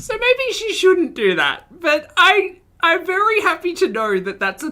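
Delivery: very high-pitched, starting drawn out; odd high voice. Real, not acted. Streamer marvels at what the voice can do, high-pitched. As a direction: push the voice way up high. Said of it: "thing that I can do with my voice".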